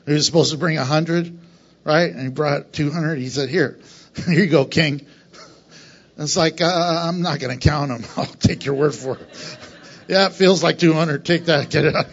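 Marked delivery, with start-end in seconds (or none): 3.5-12.1 laughing mock dialogue. Pastor retelling David's foreskin gift to the king, laughing.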